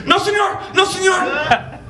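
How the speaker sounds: high, frantic cry of no, senor; a scared kid yelling in his sleep; panicked kid in a nightmare. Retold or imitated. Kid crying out in his sleep at the teacher, high and frantic.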